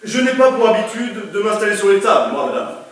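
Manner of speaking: pompous declaiming notary; hammy stage actor. Acted. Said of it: "quand je déclame". (acteur cabotin qui déclame)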